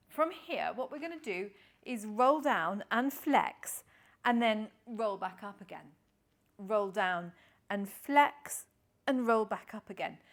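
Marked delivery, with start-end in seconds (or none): 4.2-10.2 slow coaching cue. Shown as a demonstration. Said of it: "cue repeated during movement".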